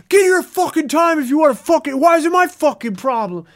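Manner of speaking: angry rant. Retold or imitated. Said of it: "crazy, just went off".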